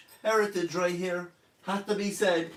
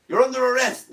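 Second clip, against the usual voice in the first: mock police officer; 5 semitones higher, 6 dB louder, faster than usual.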